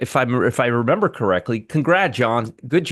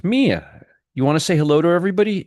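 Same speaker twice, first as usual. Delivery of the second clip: higher, quick coaxing to the dog; talking to a pet; 5 semitones higher, faster than usual. Real, not acted. Host asks his dog to greet viewers, higher pet-talk. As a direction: coax the dog to say hello.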